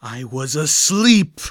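slow, loud booming dragon roar; booming angry. Acted. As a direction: boom it out in fury. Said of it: "The dragon's voice boomed with anger".

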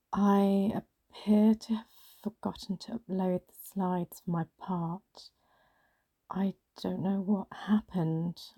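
slow, hesitant, mildly quavering confession. Acted. Confessing the missing slides to a colleague, quavering slightly. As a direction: falter through it with a slight quaver. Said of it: "my voice quavering".

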